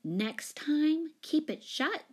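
high, brisk brush-off; curt big-sister retort; unsympathetic. A narrator's reading. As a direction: tell them off without sympathy. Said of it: "said Jane unsympathetically".

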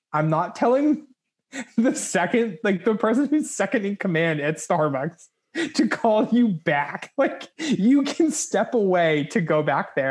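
high, slow, emphatic scolding; indignant boss. Retold or imitated. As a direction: spell it out like a boss who won't budge. Boss refusing to pass message.

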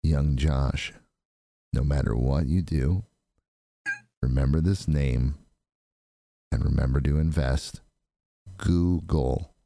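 put-on a wise future self telling young Josh what to invest in; older self advising. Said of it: "be like".

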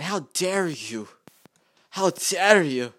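mock Greta Thunberg. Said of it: "starts crying, putting on a show".

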